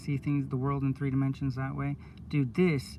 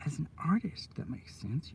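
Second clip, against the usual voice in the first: whispered aside; 6 dB quieter than usual. Real, not acted. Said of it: "whispered aside".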